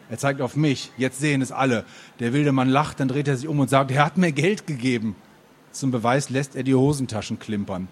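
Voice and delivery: earnest literary reading with animated dialogue; story narration. A narrator's reading. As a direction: read the first-person story aloud, phrase by phrase. Reads the novel aloud.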